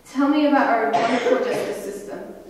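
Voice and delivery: bitter sarcasm with a scoffing laugh; mock the justice system with a dry laugh; sarcastic. Real, not acted. Speaker to audience, mocking the justice system, sarcastic laugh.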